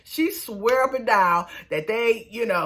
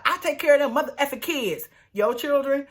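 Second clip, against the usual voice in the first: raised pitch, mock argument; indignant retort; 6 semitones higher than usual. Girlfriend defending her care of the kids, indignant retort. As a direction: imitate a fed-up retort, pitched up.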